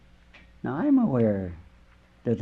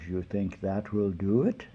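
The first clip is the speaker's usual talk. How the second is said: slow, low mock-solemn voice; lightly put-on deep confessor's voice; 4 semitones lower, 4 dB quieter than usual. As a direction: drop low and draw it out. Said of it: "in this deep voice".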